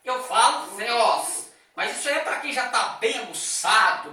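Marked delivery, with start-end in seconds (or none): 0.8-1.5 Theos, th between the teeth, slow; pulled toward theta. Shown as a demonstration. Teacher showing the trained Theos, slowly, th between the teeth. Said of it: "puxando para o que apresenta o teta".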